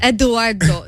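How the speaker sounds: lightly put-on Italian pronunciation of a name; Italian accent. Woman enjoys saying her date's name, Italian accent. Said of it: "fun to say with the accent".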